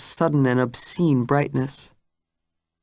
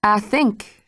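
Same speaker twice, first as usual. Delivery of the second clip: deadly calm; 6 semitones higher than usual. Acted. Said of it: "a tone of deadly evenness".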